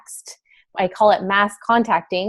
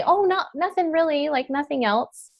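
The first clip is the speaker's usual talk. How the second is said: higher, dismissive customer voice; imagined reluctant customer; 7 semitones higher than usual. Acted. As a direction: brush the question off in a raised pitch. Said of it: "So if they say".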